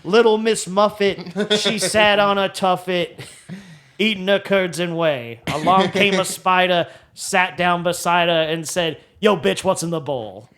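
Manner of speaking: lightly voiced, slow brash comic reciting; Dice Clay nursery rhyme. Friend riffing on Dice Clay doing nursery rhymes, lightly brash. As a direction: recite it like a crude club comic. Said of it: "nursery rhyme, Dice Clay".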